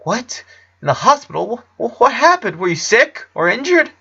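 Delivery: high, stammering alarmed questions. A narrator's reading. Clyde hearing Lincoln was in hospital, alarmed and high. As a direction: panic for your friend. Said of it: "Clyde gasped".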